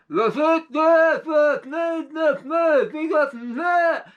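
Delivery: frantic high, loud hollering; panicked robber hollering back to his gang; hollered back. Acted. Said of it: "And he hollered back".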